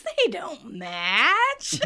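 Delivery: drawn-out doubt. Retold or imitated. Acts out Joey's drawn-out doubt.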